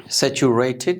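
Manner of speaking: saturated ending in "tid". Shown as a demonstration. Teacher modelling the ED rule, saturated with "tid". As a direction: finish saturated on a short "tid". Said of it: "थिड की sound आएगी".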